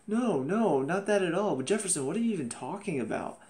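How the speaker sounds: mock protest starting high and easing down; imitated denial. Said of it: "she's like".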